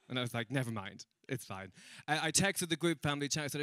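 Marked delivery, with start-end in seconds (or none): 0.5-1.7 low, soft brush-off; deflated backing down. Retold or imitated. Comedian giving up on explaining to the man, deflated. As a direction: drop it quietly and move on. Gives up after the heckle.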